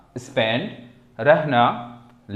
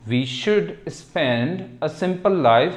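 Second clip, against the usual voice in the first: slow model sentence; much slower than usual. Shown as a demonstration. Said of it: "teacher reads model sentence".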